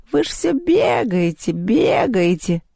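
slow, drawn-out cat grumble; complaining cat. A narrator's reading. The cat complains that children keep running, grumbling. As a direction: start high and let the repeat sag.

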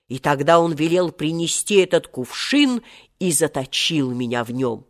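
solemn storytelling, a hint of an ancient genie; understated grandiose old-genie voice; lightly voiced proud genie. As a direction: recount the grievance as a haughty genie. Genie tells his story.

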